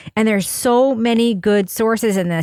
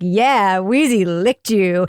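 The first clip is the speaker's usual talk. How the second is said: affirming dog owner; 3 semitones lower, much slower than usual. Retold or imitated. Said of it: "so affirmatively wonderful".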